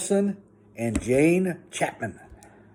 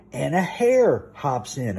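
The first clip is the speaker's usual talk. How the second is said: sing-song bedtime story reading; rhythmic picture-book read-aloud; storybook reading. Acted. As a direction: read it lively to a small child.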